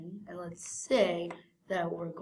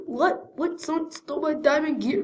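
high, loud pretend outrage; shocked disbelief; 7 semitones higher, 4 dB louder than usual. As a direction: repeat it in mock horror, voice pitched up.

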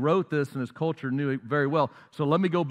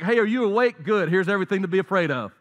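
higher, louder, rushed toward the end, like a cheerful alarm; the world as a pushy announcer; 3 semitones higher, 3 dB louder, faster than usual. Retold or imitated. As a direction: voice the world waking you up to bad news. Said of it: "The world's just like".

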